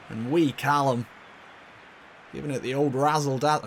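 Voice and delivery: half-hearted attempt at a Scottish accent; bad Scottish accent. Commentator praising wee Callum, in a poor Scottish accent. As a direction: have a clumsy go at Scottish. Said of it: "I can't do a Scottish accent".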